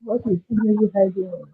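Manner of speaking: muffled voice far from the mic; muffled, like through a wall. Real, not acted. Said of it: "You sound muffled".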